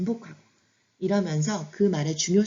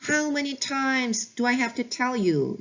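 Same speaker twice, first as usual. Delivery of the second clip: slow, slightly raised exasperated phrase; slow exasperated demo; 5 semitones higher, much slower than usual. Shown as a demonstration. Teacher showing what frustrated parents say, slow and exasperated. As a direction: drag it out like a tired parent. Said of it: "이런 말 정말 많이 하죠".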